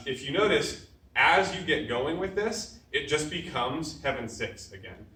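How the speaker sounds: rhythmic calls of each strike, dropping away at the end of each set; drill calls. Shown as a demonstration. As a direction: call out the combo as you hit. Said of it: "calling strikes while drilling".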